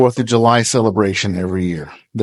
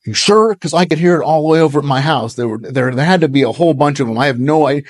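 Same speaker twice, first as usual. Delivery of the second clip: higher and fast, pushing back; hothead neighbor; 4 semitones higher, faster than usual. Retold or imitated. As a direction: challenge him quick and suspicious. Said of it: "And Eric is a hothead".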